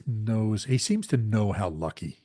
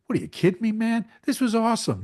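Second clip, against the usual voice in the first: much higher, louder, incredulous guy voice; Rob Lowe impression; 14 semitones higher, 7 dB louder than usual. Podcast host imitating Rob Lowe mocking the Rat Pack, high and loud. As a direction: scoff at the whiners in a big high voice. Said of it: "And Rob Lowe's like".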